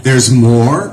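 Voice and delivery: a stunned laugh at the news; laughing disbelief. Retold or imitated. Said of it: "And I'm like".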